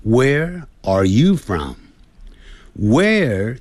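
slow drill of "you"; stress on you. Shown as a demonstration. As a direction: drawl it and lift "you". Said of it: "声音要提高".

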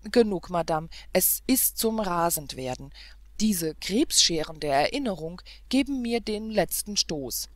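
loud, indignant rant with Krebsscheren der Erinnerung stressed and falling; furious tirade. Acted. Prince ranting to the governess about the princess, loud and furious. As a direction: rail against the princess, boiling over. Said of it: "mit einem heftigen Sprunge".

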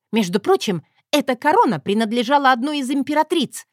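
loud, indignant bark; barked retort. A narrator's reading. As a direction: snap back to defend the crown. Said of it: "рявкнула я".

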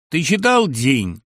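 slow, loud question, ЧИТАЛ drawn out and falling; hearty pal asking. Acted. Friend asking on the phone, slow loud falling ЧИТАЛ. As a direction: ask it slowly, matter-of-fact.

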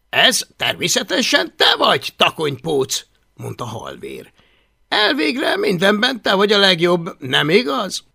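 butter him up with a hint of mockery; sly flattering boy.

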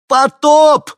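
very high, very loud scream; full scream. A narrator's reading. Henni screams to the woman from the helicopter, full scream. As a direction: shout with all your might.

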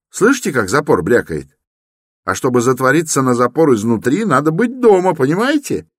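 high, rising, quick reasoning; young man working it out for Koch, high and loud; excited young man. Acted.

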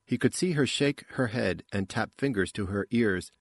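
ordinary delivery, nothing marked

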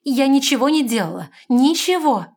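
high, loud, hurried protest; frantic denial. A narrator's reading. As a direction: deny it in panic. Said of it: "поспешно проговорила".

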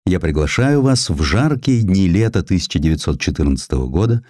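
ordinary delivery

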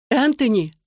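sharp high cry of alarm; cry out his name. A narrator's reading. Mother crying out to her son as he threatens to leave, a high sharp cry. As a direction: call out to stop him, high and sudden. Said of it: "вскрикнула Татьяна".

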